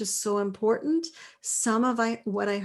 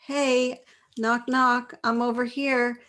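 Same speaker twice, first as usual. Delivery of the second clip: raised, louder playful call; calling for attention; 3 semitones higher, 4 dB louder than usual. Acted. Coach voices a hello seeking attention, playfully calling out. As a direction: call out to be noticed. Acting out saying hi to be heard.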